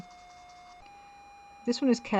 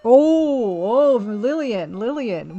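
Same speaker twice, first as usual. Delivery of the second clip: excited gasp; 8 dB louder, much slower than usual. Real, not acted. First sight of vivid red paint.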